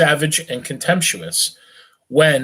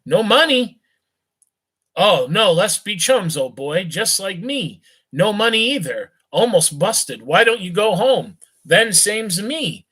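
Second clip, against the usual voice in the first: put-on a higher, loose drunken youth; sway through it like a cheerful drunk; tipsy young gent; 5 semitones higher than usual. Drunk rich youth offers friendship to a beggar, higher and tipsy.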